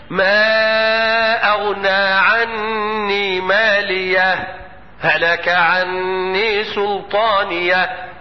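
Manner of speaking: slow chanted recitation, long held vowels; Quran recitation. Shown as a demonstration. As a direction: chant it slowly joining the verses. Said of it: "إذا قرأت بوجه الإظهار هكذا".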